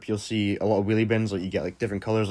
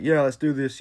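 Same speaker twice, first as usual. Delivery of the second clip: mild retold cheer, pitched up; 4 semitones higher than usual. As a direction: cheer along with the group, not full out. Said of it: "they're cheering".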